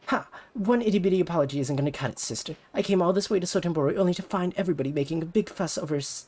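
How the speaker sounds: put-on high, pushy rival-girl voice; bratty rival idol. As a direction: talk down to her like a snobby idol. Ulala challenges.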